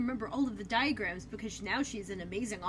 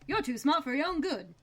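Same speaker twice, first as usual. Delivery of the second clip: villain voice; 3 semitones higher than usual. Retold or imitated. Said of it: "Okay, you can stop now".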